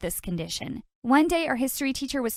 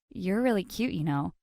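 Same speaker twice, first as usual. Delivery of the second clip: soft flirty; 4 semitones lower, 4 dB quieter than usual. Acted.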